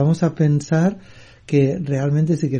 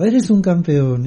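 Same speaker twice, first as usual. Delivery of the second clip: higher, drawn-out call, not a full yell; mild mock shout; 4 semitones higher, slower than usual. Father calls to the mountain, slow mock shout. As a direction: call it out slowly, voice raised in pitch. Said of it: "y el hombre gritó".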